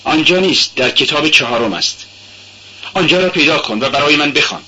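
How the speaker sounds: put-on brusque young man giving an order; dry command. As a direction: cut her off dryly. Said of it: "به خشکی گفت".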